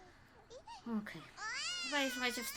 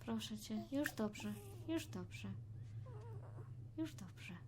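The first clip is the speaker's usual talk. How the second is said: soft soothing hush; calm the baby, softly; quiet at night; 10 dB quieter, slower than usual. Pretend.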